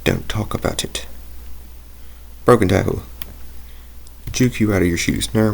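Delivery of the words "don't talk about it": whispered, hushing himself up; embarrassed whisper. Real, not acted. Gamer hushing himself after slipping into an accent, whispered. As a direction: breathe it out like a secret aside.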